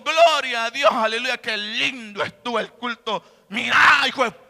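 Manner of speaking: hammed-up hallelujah turning into a loud snap; mock the Sunday praise, then blurt a curse; mock churchgoer outburst. Preacher mocks a churchgoer who praises then curses, loud.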